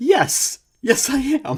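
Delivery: very high, loud, proud squealed yes. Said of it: "And I was like".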